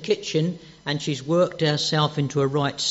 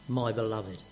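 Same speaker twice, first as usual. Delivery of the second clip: tender whisper of love; 6 semitones lower, 5 dB quieter than usual. Retold or imitated. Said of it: "and he cries".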